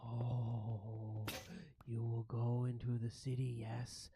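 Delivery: lightly voiced awed rat creature; a touch of greedy wonder; rat prince. Rat prince hearing of the city's shinies, mildly awed voice.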